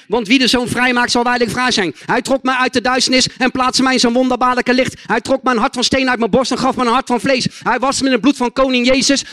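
emphatic declarations building in volume; preaching testimony. Real, not acted. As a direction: drive each line home, building toward a loud finish. (steeds krachtiger getuigende prediking)

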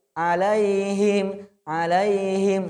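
"Alaihim" swung too much; wrong swaying pronunciation. Shown as a demonstration. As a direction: demo the error "Alaihim".

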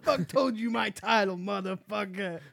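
mock furious rant, dragging out motherfucker; imitating the ranting customer. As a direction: ham up her outraged line as a joke. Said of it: "That's how I'm gonna go around now".

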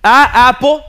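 "apo" loud and high with Spanish "ah"; Spanish-style A. Retold or imitated. Pupil reciting at the blackboard, Spanish-accented beginner English. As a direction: belt out "A, apo" with an open Spanish A. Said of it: "la A se pronuncia como".

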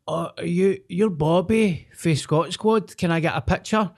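high, eager fan voice; starstruck fan. Retold or imitated. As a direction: gush like a young fan who just spotted someone. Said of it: "his face done that".

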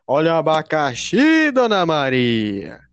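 loud, slow singsong hawking call; street vendor. Retold or imitated. Pineapple seller calling Dona Maria, loud drawn-out cry. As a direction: holler it down the street, stretching the last words. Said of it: "eu lembro dos vendedor ambulante".

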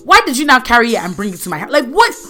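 loud, rapid-fire indignant questions; exasperated confrontation. Retold or imitated. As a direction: demand answers, punching the question words. Angrily confronting the woman who left baby.

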